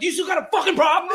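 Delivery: high, loud mock confrontation; retold angry challenge. Fan turning around on the old man, hammed-up angry challenge. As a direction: throw it out like picking a fight.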